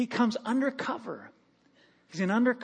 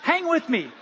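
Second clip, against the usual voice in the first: pleading casual; 4 semitones higher than usual. Retold or imitated. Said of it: "I just wanna say".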